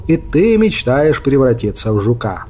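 put-on ominous old wizard. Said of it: "зловеще произнёс волшебник".

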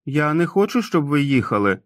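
bursting out. Acted. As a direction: blurt it out before you can stop. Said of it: "вибухнув Том". (раптовий дитячий вибух, вище)

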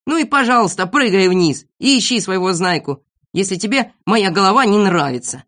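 a touch of huffy shouting; indignant cry. Acted. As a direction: argue back hotly. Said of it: "закричал Незнайка".

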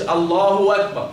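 "الله أكبر" said as allaahu-wakbar; hamza turned waw. Shown as a demonstration. Teacher showing what not to say, w replacing the hamza. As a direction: glide with a w into the second word of "الله أكبر". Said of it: "لا تبدل واوا".

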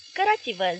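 loud, commanding order; gruff order. Acted. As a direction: throw them out with it. Armed men ordering them out.

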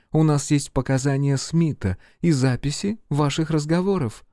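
high, pointed female voice; triumphant woman agent. A narrator's reading. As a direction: lay out the evidence, winning. Agent lists evidence.

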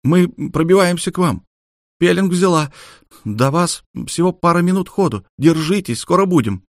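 rally them: we're coming; Olga's voice. Acted. Olga reassures over comm.

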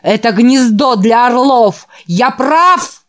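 rousing sermon voice, building up; fiery preacher. Acted. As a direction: preach to the boys with fervour. Narrator voices preaching reverend. (пылкий проповедник)

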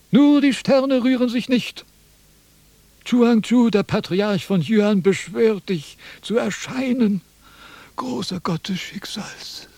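invoke the god with ceremony; solemn incantation. Acted. Philosopher summons the god of fate, solemn chant.

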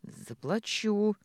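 медленно сквозь зубы; выдавить слово нехотя, растянуто; процедила. Acted. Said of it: "процедила она". (Маша нехотя отвечает Михаилу, процеживая)

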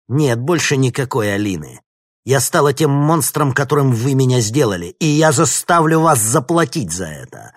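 loud, high furious vow; vengeful outburst. A narrator's reading. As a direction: make them pay, shouting it. Villainess vows revenge.

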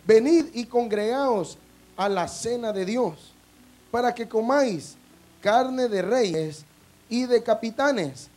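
slow, weighty Bible reading; solemn scripture reading. Acted. Pastor reading Revelation to the congregation, slow and solemn. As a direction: read each phrase slow and grave. Reads Revelation aloud slowly.

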